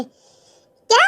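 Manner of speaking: long, high rising exclamation; drawn-out startled question; shocked. Acted. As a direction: stretch it out, climbing in disbelief. Shocked at father's dinner invitation.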